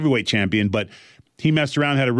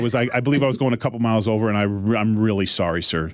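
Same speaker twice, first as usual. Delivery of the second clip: polite white voice; 5 semitones lower, faster than usual. Retold or imitated. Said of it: "That's my police voice and get a job voice".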